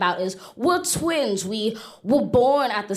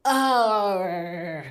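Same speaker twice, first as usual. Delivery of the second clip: pirate shout; 3 semitones higher than usual. Retold or imitated. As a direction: bellow it like a pirate. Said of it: "These are how dinners were spent".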